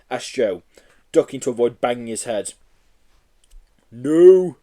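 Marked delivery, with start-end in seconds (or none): 3.9-4.6 loud breathless no; panting. Acted. Yeti spinning in the doors, panting no. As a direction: gasp it out winded. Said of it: "panted the Yeti".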